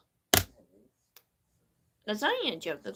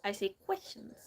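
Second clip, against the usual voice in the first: rushed questions; 2 semitones higher than usual. Shown as a demonstration. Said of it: "sounds like a child".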